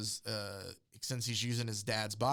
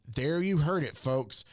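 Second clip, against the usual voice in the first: mock on-air reporter, a little raised; news reporter; 3 semitones higher than usual. News reporter tells the folks about Superman's prediction, mock announcer delivery. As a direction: imitate a reporter announcing to viewers.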